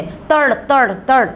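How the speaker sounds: voiced pistol shots, tad tad tad; child firing a toy pistol, mouth sound effect; toy gun bang. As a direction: make the gun noise with your mouth. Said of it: "पिस्तौल की आवाज़ आती है".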